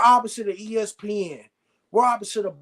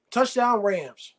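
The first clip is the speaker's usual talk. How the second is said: slower, drawn-out call at normal pitch; easy, lengthened announcer-style call; touchdown call; much slower than usual. Real, not acted. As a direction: stretch out the scoring call without raising it. Calling out a touchdown.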